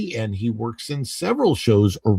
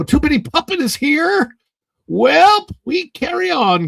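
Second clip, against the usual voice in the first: excited; 14 semitones higher, 7 dB louder than usual. Real, not acted. Excited greeting of a viewer.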